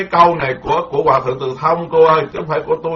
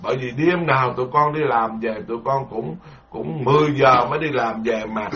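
softer, lower, gentle reply; humble lay follower; 3 semitones lower, 4 dB quieter than usual. Acted. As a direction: answer the master politely and meekly. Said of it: "Phật tử nói".

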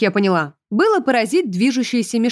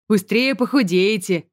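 gloomy. A narrator's reading. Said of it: "хмуро сказал нам Конни".

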